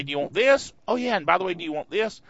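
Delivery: lightly voiced pushy installer asking twice; a hint of a nagging setup prompt; mock installer voice. Software installer nagging the listener to add extras, mock voice. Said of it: "It'll say".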